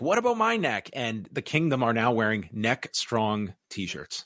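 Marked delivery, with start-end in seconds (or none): 0.0-0.9 high, complaining mock yell. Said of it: "yells at Adam".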